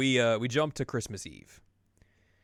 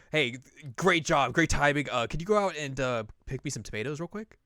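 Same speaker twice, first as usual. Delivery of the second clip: breezy dismissal; 4 semitones higher, 3 dB louder than usual. Retold or imitated. Yu sending Chie for tomatoes, breezy. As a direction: hand her an errand breezily.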